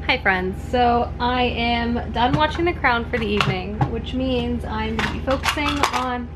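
talking with a retainer in; words around a retainer; wearing a retainer. Real, not acted. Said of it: "just drop my retainer".

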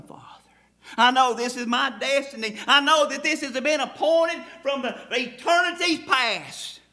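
beg, then let the last words fall away; anguished prayer. Retold or imitated. Preacher voicing Jesus in agony in the garden, pleading then hushed. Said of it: "Can you hear Jesus crying out in prayer".

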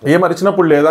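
a lightly imitated heated comeback. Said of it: "simple".

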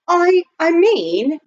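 high, loud, slow false start; nervous stammer. A narrator's reading. Butler working up courage to propose, stammering nervously. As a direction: stumble on the first word, drawing it out. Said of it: "stopped to gather up his courage".

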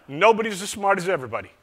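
Southern accent imitation of "nobody's as smart as everybody". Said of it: "I'll continue with the Southern accent".

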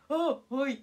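startled answer. Retold or imitated. Player hears her name called second, startled reply. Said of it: "みたいな。".

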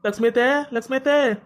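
calling for an aunt at her door. Acted. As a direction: call out the name, lifting then dropping.

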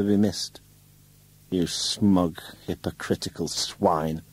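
a woman sneering with contempt; lightly voiced bitter wife; scornful woman.

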